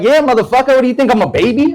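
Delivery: put-on high, indignant little-kid voice. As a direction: mimic a cheeky five-year-old talking back. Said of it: "I look at the little kid".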